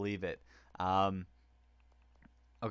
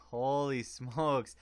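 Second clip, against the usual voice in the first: laughing; 2 semitones higher, much slower than usual. Real, not acted. Laughs at score.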